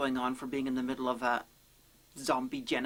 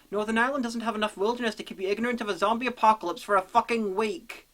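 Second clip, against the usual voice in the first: fast, higher-pitched, incredulous rant; exasperated rant; 5 semitones higher, 4 dB louder than usual. Acted. Reviewer ranting that they should have noticed, exasperated. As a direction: rattle it out in exasperation, hitting the swearing louder.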